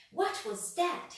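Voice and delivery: high, loud panicky shriek. A narrator's reading. Mister Jelly hears a twig snap, shrieking high. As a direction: shriek and wail in mounting panic. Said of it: "he shrieked".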